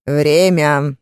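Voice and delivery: loud barked order. Acted. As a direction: bark it like a brute. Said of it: "рявкнул Карим".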